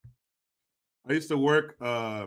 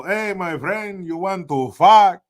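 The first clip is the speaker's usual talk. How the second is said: slow, higher, hammed-up sweet-talk luring a mark; mock seductive come-on; 4 semitones higher, 8 dB louder, slower than usual. Robber posing as a woman lures field worker, hammed-up slow come-on. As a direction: lure him in slowly, laying the bait on thick.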